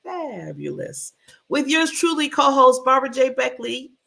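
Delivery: high, loud, sing-song hello to the audience; excited host greeting. Real, not acted. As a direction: open the show big and bright. Show host greeting opener.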